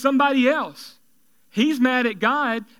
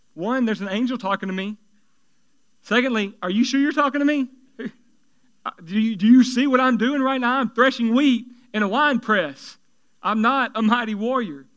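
incredulous Gideon; 3 dB louder than usual. Retold or imitated. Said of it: "Gideon was like".

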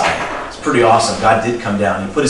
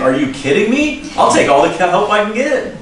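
eager Moses; 8 semitones higher than usual. Retold or imitated.

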